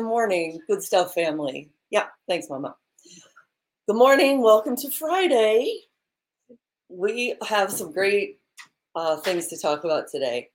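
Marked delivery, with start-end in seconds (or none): 3.9-5.8 high, loud, bright hello to the audience; host kicks off Friday, high and loud; loud show greeting. Real, not acted. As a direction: open the show with a big cheer. Show opening greeting to viewers.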